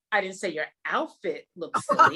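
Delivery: "silly" lifted at the end through a laugh; stress on silly. Shown as a demonstration. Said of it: "your emphasis on different parts".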